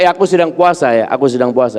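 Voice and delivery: voiced aloud, dropping in pitch; offhand reply in full voice; casual mock retort. Shown as a demonstration. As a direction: toss it back like a half-challenge. Mimics the wrong, combative reply.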